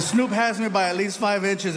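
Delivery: loud, half-crying repeat of the line. Shown as a demonstration. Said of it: "I said".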